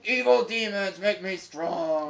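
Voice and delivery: slow, drawn-out troll incantation; a hint of a chanting troll; lightly voiced troll. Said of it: "He's like".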